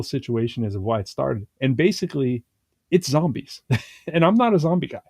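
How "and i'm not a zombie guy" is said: said through a laugh, a little higher; chuckling as he admits it. Real, not acted. Host admitting to cohost he's not into zombies, laughing. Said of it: "I don't do zombies".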